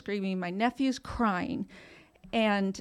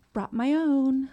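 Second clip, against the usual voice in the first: smug laughing quip, a touch higher; 4 semitones higher, 4 dB louder, slower than usual. Retold or imitated. Telling her sister-in-law she brought her own wine, laughing. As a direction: chuckle it out like a cheeky comeback.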